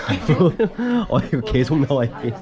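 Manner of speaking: laughing through the words. Real, not acted. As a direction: chuckle it out, full and happy. Laughs, repeats I'm full.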